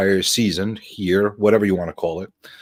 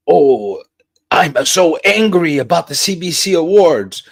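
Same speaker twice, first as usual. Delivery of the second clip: slow, hammed-up fake outrage; mock clickbait whine; 5 semitones higher, 4 dB louder, slower than usual. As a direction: parody a clickbait rant, overdone. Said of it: "There's no clickbait".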